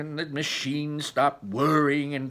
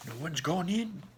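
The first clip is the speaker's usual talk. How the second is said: mild crowd shout, louder at the end; 4 semitones higher, 3 dB louder than usual. Acted. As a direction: call out the puzzle to the crowd. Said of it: "the people shouted".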